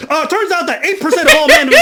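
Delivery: high, loud laughing parody of a stats rant; mocking the host. Mocking the host railroading women with stats, high, loud, laughing. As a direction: lampoon his number-spouting lecture.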